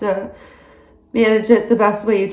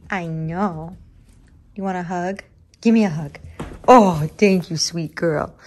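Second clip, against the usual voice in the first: tender pet talk; 4 semitones lower than usual. Real, not acted. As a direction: coax the dog gently for a hug. Soothing her dog, asking a hug.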